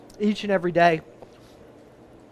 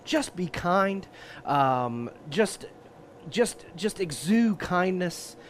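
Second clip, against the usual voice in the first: soft, slow and gentle; 5 dB quieter, much slower than usual. Real, not acted. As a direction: ease into it kindly. Gentle closing advice.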